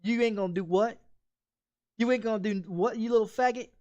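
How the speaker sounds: retold angry challenge. Retold confrontation with brother-in-law.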